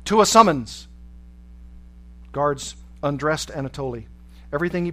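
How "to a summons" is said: loud, gruff command, pitched up; gruff order. A narrator's reading. Guard ordering a prisoner out of his cell, gruff and loud. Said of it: "with a gruff voice ordered".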